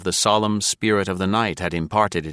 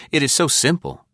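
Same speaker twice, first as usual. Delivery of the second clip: higher-pitched, lightly smiling delivery; 7 semitones higher than usual. A narrator's reading. Condemned spy explaining death to the General, smiling. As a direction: say it with an easy smile. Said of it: "he added with a smile".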